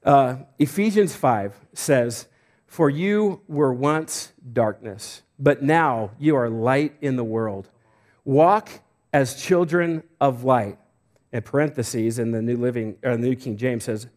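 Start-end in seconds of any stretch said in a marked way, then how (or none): 2.7-10.8 scripture reading. Acted. Reads scripture aloud slowly.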